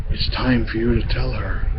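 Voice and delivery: low, hushed voice of a queen; soft whispered aside. A narrator's reading. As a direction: confide it softly in an ear. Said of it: "And the Queen whispered".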